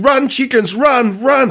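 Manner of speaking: high, urgent cartoon cheer; high-pitched rooting for the chickens. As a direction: urge the chickens to flee. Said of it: "and you'd be going".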